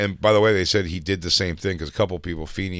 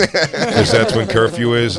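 laughing; 3 semitones higher, 5 dB louder, much slower than usual. Retold or imitated. Imitating Feeney leaning in.

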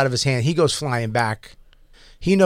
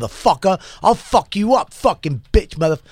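mock yell, no real volume; mild mock scream with raised pitch; retold screaming; 4 semitones higher than usual. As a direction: imitate a man screaming curses, held back. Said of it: "he's still screaming".

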